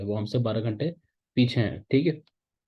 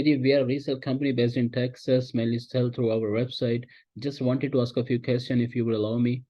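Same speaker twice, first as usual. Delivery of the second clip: slow, easy pitch delivery; smooth flow; much slower than usual. Shown as a demonstration. Teacher demos the opening line for a distributor call. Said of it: "इसी अंदाज में, इसी flow के साथ बोलना है".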